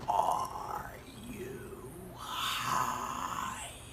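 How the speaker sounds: very throaty, growling demon whisper. Retelling a demon-like voice in your ear as you fell asleep: throaty, growly demon whisper. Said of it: "it was whispered, like like so throaty and growly".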